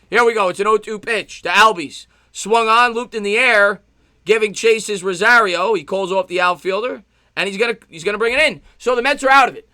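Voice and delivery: lifted, projected sportscaster voice; live play-by-play. Real, not acted. Streamer calls the end of the inning, live play-by-play. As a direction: call the fly ball through to the inning summary.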